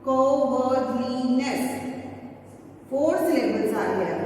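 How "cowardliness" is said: cowardliness said slowly; slow syllable by syllable. Shown as a demonstration. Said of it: "So you will pronounce".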